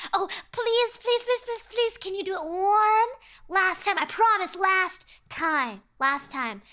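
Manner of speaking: high, pleading whine, loud; begging fisherman. Acted. Greedy fisherman begging the demon, high pleading whine. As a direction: beg desperately like a greedy child. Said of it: "the fisherman says".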